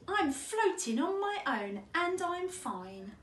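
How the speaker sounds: lightly acted childlike delight; happy boast. A narrator's reading. Otto celebrates floating alone.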